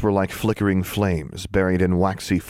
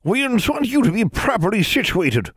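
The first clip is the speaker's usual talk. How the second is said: ancient crone voice; 3 dB louder than usual. A narrator's reading. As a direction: creak it out like an ancient witch. Seated crone speaks.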